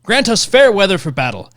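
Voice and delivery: put-on lightly Southern-accented prayer reading. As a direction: let a Southern accent creep back into the prayer. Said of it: "Went back to Southern".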